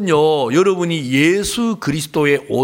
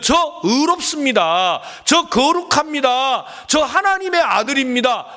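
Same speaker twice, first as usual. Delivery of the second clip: confident declaration; 6 semitones higher than usual. Shown as a demonstration. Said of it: "이렇게 말을 해야 되는데".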